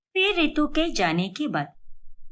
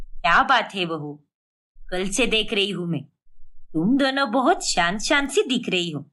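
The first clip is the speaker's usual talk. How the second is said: lower-pitched caring mother-in-law; 5 semitones lower than usual. Acted. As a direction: ask like a concerned elderly saas, voice dropped low. Mother-in-law questions daughter-in-law. (चिंतित सास की नीची आवाज़)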